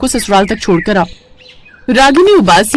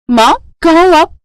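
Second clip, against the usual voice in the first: much higher, longing call; eager phone call; 8 semitones higher than usual. Acted. Daughter calling her mother, eager and much higher.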